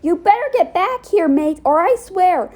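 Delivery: loud, high threatening call; angry threat. Acted. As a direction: yell after him furiously. Chasing 2D angrily.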